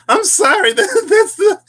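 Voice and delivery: high, loud burst through laughter; laughing apology. Real, not acted. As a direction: crack up while trying to apologise. Cracks up at own dramatic voice.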